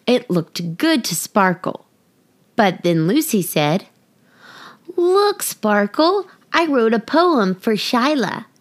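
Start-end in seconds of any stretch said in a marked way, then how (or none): 5.0-8.5 put-on excited girl. Lucy shows her poem.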